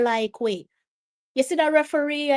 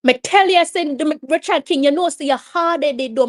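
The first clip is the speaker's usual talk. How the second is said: raised, pressing telling-off; exasperated scolding; 4 semitones higher, 5 dB louder than usual. Real, not acted. Fan scolding hard-headed player for pushing, exasperated telling-off.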